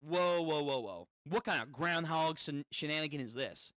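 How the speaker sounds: riders in a panicked loop; exasperated riders gasp at the same meat again; freaking out. Acted. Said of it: "they're freaking out".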